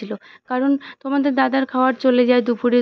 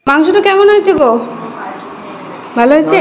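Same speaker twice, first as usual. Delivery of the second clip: eager asking; 5 semitones higher, 8 dB louder than usual. Real, not acted. Eager question to husband tasting.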